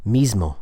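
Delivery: "mismo" with the S voiced as Z before M; assimilated S. Shown as a demonstration. Teacher giving another common example, "mismo" with Z for S. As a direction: say "mismo" with a buzzing Z. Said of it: "Another common example of this is the word".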